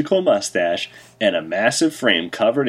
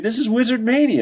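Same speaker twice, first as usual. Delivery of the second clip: hype announcer; 12 semitones higher, faster than usual. Acted. Hyping the event.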